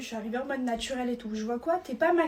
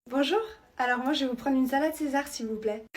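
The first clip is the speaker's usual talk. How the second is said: putting on a voice to order; affected ordering voice. Acted. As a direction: order as if trying to impress. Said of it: "pourquoi tu prends cette voix-là". (voix affectée pour commander)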